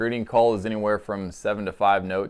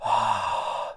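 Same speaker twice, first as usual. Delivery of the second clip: breathy "haa" like fogging up glass; fogging breath; 3 semitones lower, 4 dB quieter than usual. Shown as a demonstration. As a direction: warm breath out from the diaphragm. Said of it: "You wanna go".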